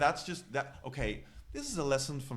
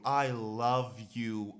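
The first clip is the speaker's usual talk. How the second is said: slow, drawn-out mock declaration of love; hammed-up swooning; 3 semitones lower, much slower than usual. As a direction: stretch it out like a lovesick fan. Gushing declaration to absent crush.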